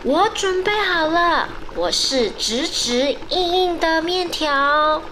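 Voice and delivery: put-on high, loud child's answer; loud and proud. Shown as a demonstration. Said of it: "就大声地说".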